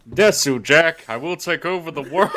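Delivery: loud mock anime villain; megalomaniac rant. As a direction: declare conquest, laughing. Mock anime world domination.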